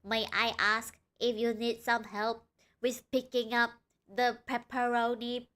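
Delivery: lightly voiced polite robot, barely changed; a hint of a stiff machine helper; playing a mild robot waiter asking a customer; robotic voice. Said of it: "in a very robotic voice".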